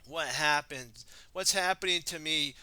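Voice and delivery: loud, rising panic; panicked. Acted. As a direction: cry out in alarm. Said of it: "He goes".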